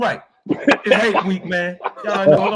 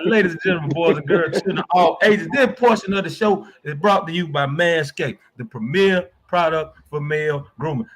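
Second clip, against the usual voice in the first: ringmaster; 5 semitones lower than usual. Acted. Sponsor read announced like circus.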